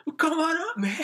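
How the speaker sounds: high, loud mock call. Friends yell to the drunk alumni, come on up. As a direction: shout up to them like a welcoming drunk.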